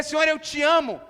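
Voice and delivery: declaração aguda e firme; amor com coragem. Acted. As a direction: declare de cabeça erguida, com paixão. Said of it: "levantar os seus olhos e dizer". (declaração corajosa e intensa)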